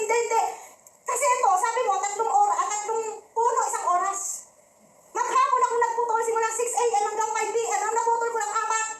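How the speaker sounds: high-pitched, insistent complaint; acted angry customer. Customer tells sales lady he cut only four, high irate complaint. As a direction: protest indignantly, pitch held up. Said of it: "doon sa tindahan at galit siya".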